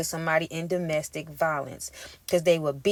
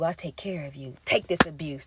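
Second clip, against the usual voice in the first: abuser's coaxing voice; 4 semitones lower, 6 dB quieter than usual. Retold or imitated. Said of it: "abuser's voice quoted".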